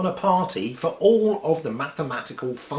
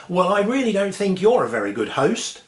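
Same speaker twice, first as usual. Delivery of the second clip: annoyed; 5 semitones higher, 4 dB louder than usual. Acted. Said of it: "she gets very annoyed".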